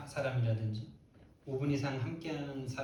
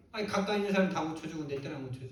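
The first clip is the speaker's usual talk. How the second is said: quick, mildly indignant complaint; acted quarrelling; 3 semitones higher, faster than usual. Preacher as mother protesting others were healed, acted quarrelling. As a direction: rattle off a mock accusation. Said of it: "막 싸우쳐야죠".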